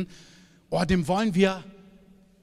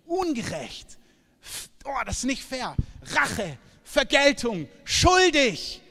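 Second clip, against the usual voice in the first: mock accusers; 4 semitones higher, 3 dB louder, slower than usual. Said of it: "wo Leute dich angucken und sagen".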